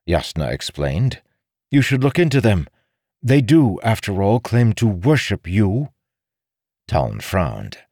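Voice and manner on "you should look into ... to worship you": high, firm female voice; crisp, pointed lady's advice; explaining noblewoman. Acted. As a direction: inform him pointedly.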